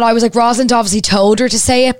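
high-pitched, stunned realisation; real astonishment. Real, not acted. Reader realising she missed a clue, astonished. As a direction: exclaim it high, then stretch out the final words.

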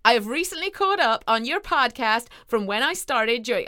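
Midwestern attempt drifting into Texas; attempted Midwestern accent. Podcast host reading a listener's message, shaky attempt at Midwestern accent. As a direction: try an American accent that slips towards Texan. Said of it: "Mm, slightly more Texas there".

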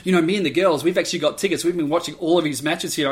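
laughing, loud, starstruck gush; giggly gushing. Retold or imitated. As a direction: giggle out how hot he is.

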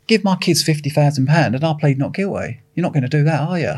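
teasing a co-defendant about pleading not guilty, lightly jokey; joking. Retold or imitated. Inmate joking to his co-defendant, playful mock bargain. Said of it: "I joked around with him and said".

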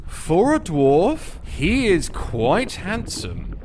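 slow, teasing description; game master narration. A narrator's reading. Game master introducing the dwarf leader, slow teasing narration.

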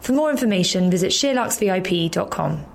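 podcast promo read; scripted ad read. Acted. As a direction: read out a members' club promo to listeners. Reads podcast club ad.

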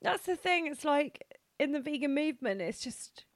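real tears, pitch lifted and wavering; tearful, emotional. Real, not acted. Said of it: "I love that you're crying".

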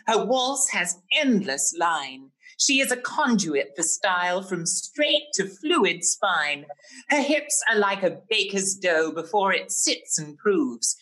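theatrical verse reading, grand and camp; poem recital. Acted. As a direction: declaim it like a flamboyant poet. Reads his bespoke poem.

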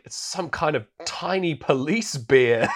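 mock incredulous. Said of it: "He delivers the best line in the whole film".

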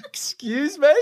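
high-pitched, drawn-out mock shock; retold squeal of disbelief; stunned disbelief. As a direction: react in laughing, baffled disbelief. Teller's stunned reaction to the kid.

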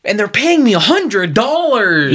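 mock excitement. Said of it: "super excited 'cause he was like".

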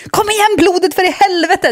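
root for it like a fan; cheering on. Retold or imitated. Cheering her blood like a football fan, excited. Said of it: "hejade på mitt eget blod".

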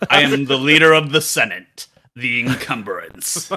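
loud, grand villain announcing his title; villain proclamation. Acted. Host voices the rebranded villain, loud mock proclamation. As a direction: proclaim it like a big bad.

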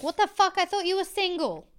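high, incredulous imitation; mock shock. Imitating Zoe confronting Connor, high mock shock. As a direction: play the jilted girl's disbelief. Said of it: "And then Zoe's like".

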